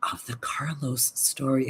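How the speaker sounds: soft secret whisper. Real, not acted. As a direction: drop to a hushed whisper to spill gossip. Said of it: "If I whisper".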